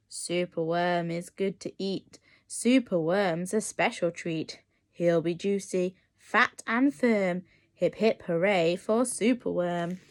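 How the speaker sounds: menacing crow gloating over its meal; dreadful croak. Acted. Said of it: "listen to his dreadful croak".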